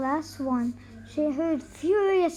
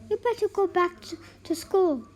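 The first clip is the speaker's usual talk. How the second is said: advising; 3 semitones higher than usual. Acted. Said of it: "she advised".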